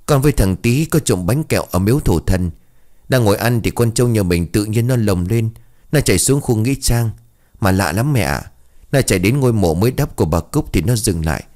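telling it while half sobbing; a touch of crying. Acted. Child confesses graveyard mischief to mother, mock tearful. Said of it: "vừa khóc vừa nói".

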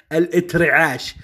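mock colloquial الاترعاش; wrong word form. Shown as a demonstration. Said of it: "وليس اترعاش". (نطق الاترعاش الخاطئ)

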